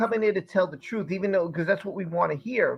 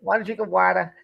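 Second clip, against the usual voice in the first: repeated mock-Boston "water"; Boston accent. Host repeating the joke for friends, Boston accent. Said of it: "you go to Boston".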